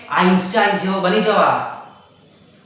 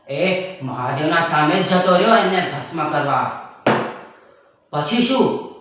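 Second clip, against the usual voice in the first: storytelling grandpa. Acted. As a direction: tell the old myth like a patient grandfather. Grandpa tells a myth.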